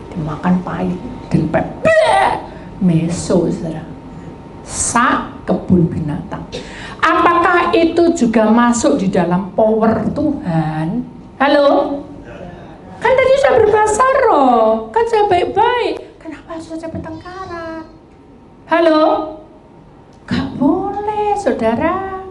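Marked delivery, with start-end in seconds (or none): 1.8-2.4 high blegh of disgust; disgusted spit, laughing. Retold or imitated. Spitting out bitter egg. 11.4-22.3 rhetorical rebuke. Real, not acted. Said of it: "preacher rebukes congregation".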